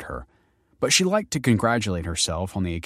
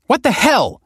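shocked high yell; 9 dB louder than usual. Acted. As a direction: yell it in disbelief. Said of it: "she yelled".

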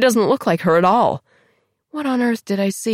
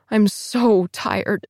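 exhausted; 4 semitones higher, much slower than usual. Acted. Exhausted confession.

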